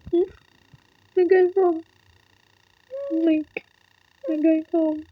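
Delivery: high, happy voice through tears; high tearful joy. Real, not acted. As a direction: share the joy with your son. Telling son, overjoyed.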